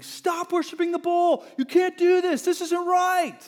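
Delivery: high, loud frantic yell; screaming. Retold or imitated. Us running into camp warning Israelites, high frantic yell. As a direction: scream it as you burst into camp. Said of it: "we run into camp screaming".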